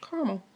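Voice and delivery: "Caramel" said car-mel; "Caramel" in two syllables, no middle A. Shown as a demonstration. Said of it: "Caramel to me would be spelled C A R M E L".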